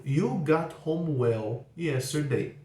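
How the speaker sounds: "You got home well yesterday." drawn out word by word; very slow statement. Shown as a demonstration. Teacher modelling the statement for students, very slow. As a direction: read it very slowly for learners. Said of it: "Por exemplo".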